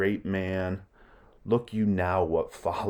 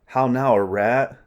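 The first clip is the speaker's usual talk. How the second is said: Hamlet's sudden cry; 4 semitones higher, 7 dB louder than usual. Acted. Hamlet stabs through curtain.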